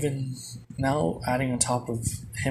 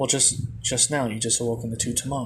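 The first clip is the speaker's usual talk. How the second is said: plain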